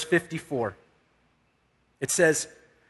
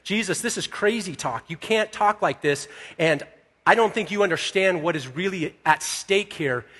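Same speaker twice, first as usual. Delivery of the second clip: raised-pitch, mildly exasperated objection; acted-out protest to a leader; rebuking; 2 semitones higher than usual. Peter arguing with Jesus over his leaving, mildly rebuking. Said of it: "He's actually rebuking Jesus".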